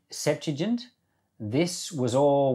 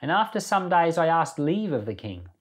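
steady, earnest Bible reading voice; a plain devotional reading; scripture reading; 3 semitones higher than usual. Acted. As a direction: read the chapter aloud to the class, measured and clear. Reads Nehemiah chapter aloud.

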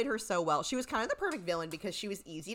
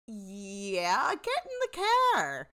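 mock angry order; 2 semitones higher, 4 dB louder, much slower than usual. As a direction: shout the order, imitating an exasperated cop. Acted angry order to a suspect.

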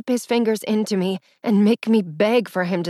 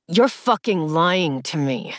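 through clenched teeth; 3 semitones lower, slower than usual. Acted. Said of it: "he said through clenched teeth".

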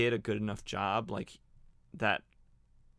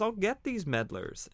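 much higher cartoon baddie line; mock villain threat; 10 semitones higher than usual. Gunman about to shoot Zatara and Tong, hammed-up menace.

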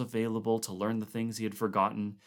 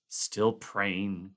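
groaned. Acted. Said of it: "Clark groaned".

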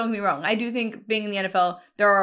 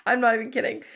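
real laughter breaking into the words; can barely get it out for laughing; laughing through words; 2 semitones higher than usual. Real, not acted. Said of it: "I'm literally almost crying laughing".

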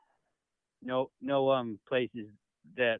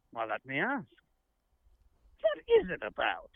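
mock English accent; 5 dB quieter than usual. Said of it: "a special England guest".

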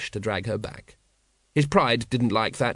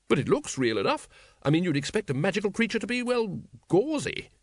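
Lady Ramkin voice; 7 semitones higher than usual. Acted.

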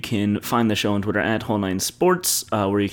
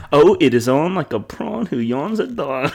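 laughing quote; 5 semitones higher than usual. Retold or imitated. Quoting, laughing.

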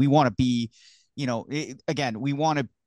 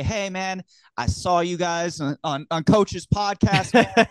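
excited fan; 6 semitones higher, slower than usual. Retold or imitated.

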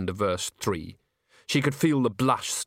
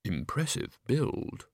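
whispered; 6 dB quieter, slower than usual. A narrator's reading. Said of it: "she could hear whispering".

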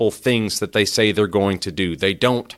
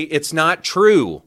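model defiant reply; 6 semitones higher than usual. Pretend. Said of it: "Take a step back and say".

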